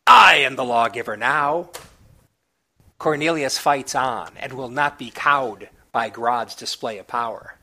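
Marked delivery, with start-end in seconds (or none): 0.1-1.7 louder triumphant proclamation; screaming to a crowd. A narrator's reading. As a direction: bellow it to the masses. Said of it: "Grodd screams to the crowd".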